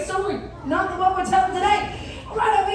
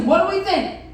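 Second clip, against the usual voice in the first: calling out; 3 semitones higher than usual. Real, not acted. Rallying the audience.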